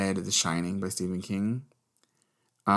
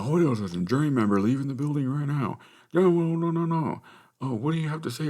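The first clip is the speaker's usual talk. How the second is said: high, excited overlapping shouts of a press pack; mock media frenzy, high and urgent; clamoring reporters; 7 semitones higher, 3 dB louder than usual. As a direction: imitate pushy reporters calling out, pitched up and louder. Mimics reporters swarming the juror.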